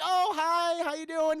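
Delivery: mock breezy hi to his girlfriend; fake cheerful. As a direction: cover up the mistake with cheer. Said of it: "He's like".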